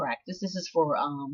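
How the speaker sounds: plain reading voice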